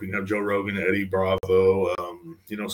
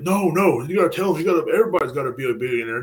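higher, fast pushy hustle-guru voice; mocking the hustle crowd; 5 semitones higher than usual. Imitating motivational types insisting everyone be a billionaire, high and pushy. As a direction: parody the eager billionaire preachers. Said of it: "They're like".

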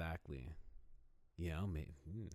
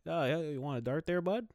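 higher and louder, a pumped-up pal calling everyone bud; hammed-up friendly buddy voice; 13 semitones higher, 11 dB louder than usual. Undercover Russian spy passing as a friendly local, higher and louder buddy voice. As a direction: play the overly chummy guy next door, up high and loud. Undercover spies acting like buddies.

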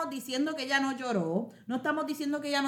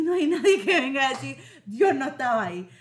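laughing; 6 dB louder than usual. Real, not acted. Speaks with joy about God's work.

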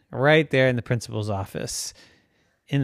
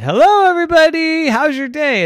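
cheerful; 13 semitones higher, 7 dB louder than usual. Acted.

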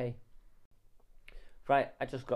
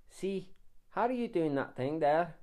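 lilting mock Scottish; attempted Scottish accent; 3 semitones higher than usual. Shown as a demonstration. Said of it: "that was meant to be Scottish".

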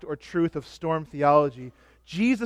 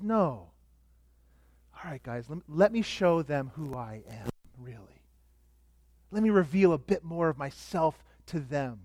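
gracious; 4 semitones lower, 6 dB quieter than usual. Pretend. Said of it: "But he's so gracious".

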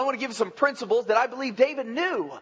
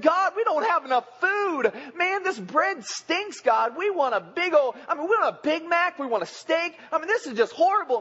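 higher, complaining whine; whining people; 5 semitones higher than usual. Retold or imitated. People grumbling to God, whiny. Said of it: "They said".

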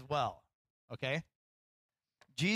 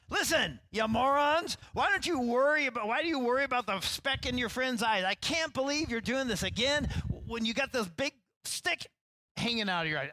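loud, high scolding rant at fools; mock yelling; 8 semitones higher, 4 dB louder than usual. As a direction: bark it at them like a fed-up teacher. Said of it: "I don't think he was talking like that".

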